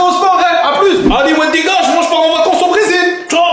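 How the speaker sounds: loud boastful farewell; shout. Acted. Son shouting to dad that he's off to Brazil. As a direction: yell it out as you walk off. Shouting goodbye, leaving on vacation.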